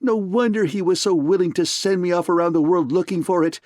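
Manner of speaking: furious man screaming insults at partner. A narrator's reading. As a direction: shriek insults in rage. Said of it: "he screamed at Gutman".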